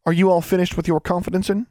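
put-on high old granny calling out a child's full name; stern old granny. A narrator's reading. Great-grandmother catching the snooping girl, high stern granny voice.

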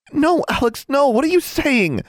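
high, loud, panicked cry; alarmed protest. A narrator's reading. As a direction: plead with a friend to stop. Anna alarmed, tries dragging her away.

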